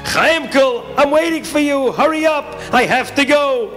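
high-pitched impatient yell; acted mild scream; screaming bus driver. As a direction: holler for a straggler to hurry. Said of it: "the bus driver screams".

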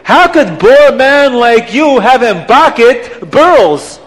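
put-on every P turned to B, accented and loud; incredulous accent, "boor" for poor, "burls" for pearls; high, loud accented disbelief; Abdallah's accent. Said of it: "he can't even say poor either".

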